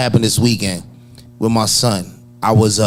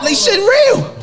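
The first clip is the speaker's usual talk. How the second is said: excited; slower than usual. Real, not acted. Laughing big reaction.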